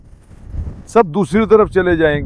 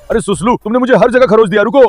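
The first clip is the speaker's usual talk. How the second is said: higher-pitched real protest; exclaimed protest; 5 semitones higher, 4 dB louder than usual. Real, not acted. Owner scratched all over by Suslu, exclaimed protest. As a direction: protest while fending off an eager pet.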